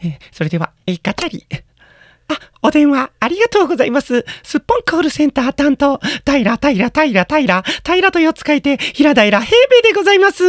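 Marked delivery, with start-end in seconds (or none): 2.3-10.5 polite call center greeting; bright phone operator politeness; customer service voice. Acted. Answers call at work.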